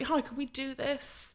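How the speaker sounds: polite request. Retold or imitated. Photographer to a traffic officer, politely asking. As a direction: ask permission sweetly, a little too innocently.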